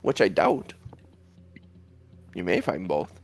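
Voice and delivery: lightly voiced orb, doubtful and settling down; a hint of a sceptical oracle; talking orb. Orb doubting they will find both, lightly voiced scepticism.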